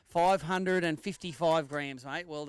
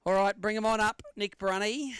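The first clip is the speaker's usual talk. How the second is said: raised voice calling the next angler up to the scales; 4 semitones higher, 4 dB louder than usual. Real, not acted. MC calling the next angler up to the scales, loud call. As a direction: call him up to the weigh-in, higher and louder.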